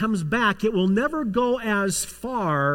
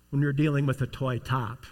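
normal talking voice

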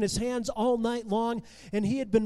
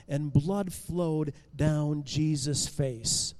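plain reading voice

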